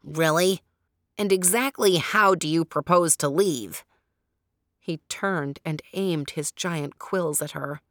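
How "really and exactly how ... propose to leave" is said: mocking porcupine. A narrator's reading. Porcupine mocks her escape.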